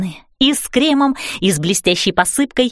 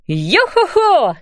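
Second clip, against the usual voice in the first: slow, higher hearty pirate call; 8 semitones higher, slower than usual. A narrator's reading. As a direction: boom it out like a ship's captain. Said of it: "сказала мама пиратским голосом".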